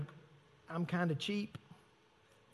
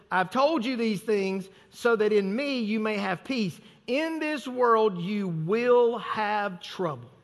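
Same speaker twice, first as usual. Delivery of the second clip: slow scripture quote; slower than usual. Acted. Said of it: "He said".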